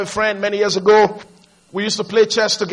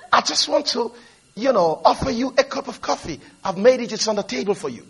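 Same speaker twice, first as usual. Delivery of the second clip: gentle, courteous offer with a smile; mock-sweet helpful tone; smiling politeness. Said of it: "with a huge British smile".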